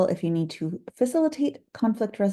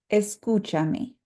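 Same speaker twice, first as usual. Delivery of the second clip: escúchame slow with cú stressed; slow model word, stress on the accented u; 3 semitones higher, slower than usual. Shown as a demonstration. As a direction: stretch it out and lean on cú. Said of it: "the U has an accent ... this syllable remains emphasized".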